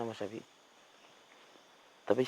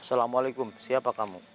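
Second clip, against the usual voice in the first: firm calling out; 3 dB louder than usual. Real, not acted. Questioning the ghost aloud.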